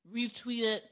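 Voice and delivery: talking through a bite of ice cream; words round a mouthful; mouth full. Real, not acted. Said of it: "Are you eating?".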